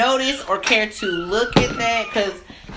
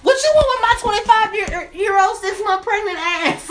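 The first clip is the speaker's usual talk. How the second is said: high, loud sassy mock challenge; retold sassy retort; 11 semitones higher, 3 dB louder than usual. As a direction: call him out with attitude.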